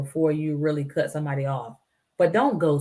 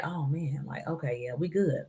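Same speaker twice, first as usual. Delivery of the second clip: tag; 8 dB quieter than usual. Retold or imitated. Acts out relieved inner reaction.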